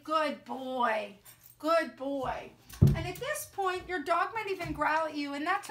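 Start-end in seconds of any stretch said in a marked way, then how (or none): 0.0-2.5 calm, reassuring praise for a nervous dog; soothing words to a scared dog. Real, not acted. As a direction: settle the dog with gentle praise. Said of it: "keep my voice soothing and calm and reassuring".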